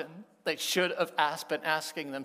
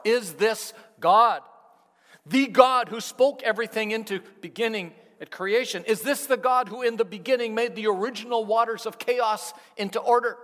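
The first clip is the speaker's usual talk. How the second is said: booming awed proclamation; preaching crescendo; 6 semitones higher, 10 dB louder than usual. Real, not acted. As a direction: build to the sermon's peak. Preaching climax, much louder.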